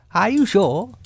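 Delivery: high, surprised rabbit voice. A narrator's reading. Rabbit doubting the bear's claim, high surprised voice. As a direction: question with high-voiced astonishment. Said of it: "still more surprised".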